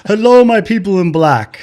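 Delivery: loud, high, beaming hello; overly cheerful greeting. Retold or imitated. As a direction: greet the crowd like a clueless guest. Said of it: "Just like".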